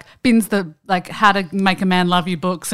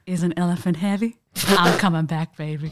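put-on old New Orleans woman; 4 dB quieter than usual. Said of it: "she's like".

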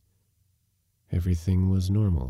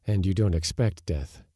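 plain reading voice

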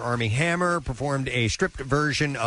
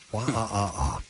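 squirrel; 3 semitones lower, 3 dB quieter than usual. Pretend. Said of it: "Could you do a squirrel?".

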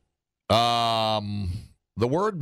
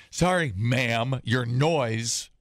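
sarcastic; much slower than usual. Shown as a demonstration. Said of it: "saying it sarcastically".

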